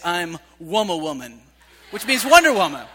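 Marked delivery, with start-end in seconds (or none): 0.1-1.4 lightly voiced little girl through a laugh; laughing toddler quote. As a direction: chuckle while quoting her. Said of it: "she says".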